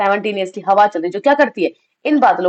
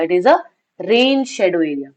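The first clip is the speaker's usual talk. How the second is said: slow, stressed repeat; 3 semitones lower, much slower than usual. Shown as a demonstration. Teacher repeats the answer to students, very slow and stressed. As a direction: repeat "rain shadow area" very slowly, leaning on "rain". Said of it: "because it is a rain shadow area".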